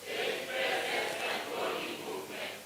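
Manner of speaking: breathy unvoiced highest-voice try; squeaky top-of-range demo. Shown as a demonstration. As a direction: push the line up to the very top of the range. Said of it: "Now say it in your highest voice".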